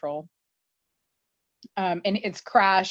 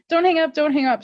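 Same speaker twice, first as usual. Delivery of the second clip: retold plea, higher and louder; urgent plea; 8 semitones higher, 6 dB louder, faster than usual. Nate begging Hardison not to hang up, mock-urgent. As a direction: imitate someone urgently stopping a hang-up. Nate acted pleading on the phone.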